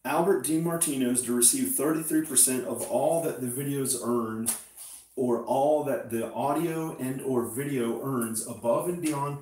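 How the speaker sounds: reading a contract. Real, not acted. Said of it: "So, so read it".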